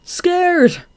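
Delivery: high, flat-out one word; a blunt answer to Marina. A narrator's reading. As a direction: say it bluntly, no fuss. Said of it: "he said bluntly".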